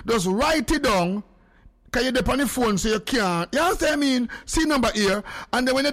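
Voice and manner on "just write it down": very slow, every word spaced out; slow dictation. Shown as a demonstration. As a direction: spell it out slowly for slow writers. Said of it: "I go say it slow".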